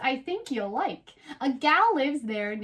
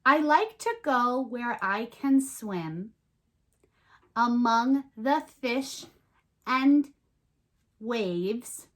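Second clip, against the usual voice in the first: slow recited rhyme; slower than usual. Shown as a demonstration. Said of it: "make some rhymes".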